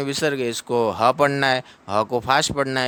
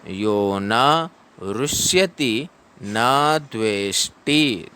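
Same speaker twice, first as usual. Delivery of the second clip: slow recitation; much slower than usual. Shown as a demonstration. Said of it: "teacher models verse recitation".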